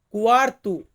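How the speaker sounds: crisp কুয়ার্তু; Portuguese word. Shown as a demonstration. Teacher models কুয়ার্তু for students, careful Portuguese. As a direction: say কুয়ার্তু as quarto, KWAR-too. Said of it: "Portuguese ভাষাতে বলা হয়".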